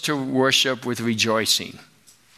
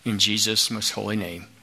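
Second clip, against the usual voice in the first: prayer. Acted. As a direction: pray gently for the people. Closing prayer.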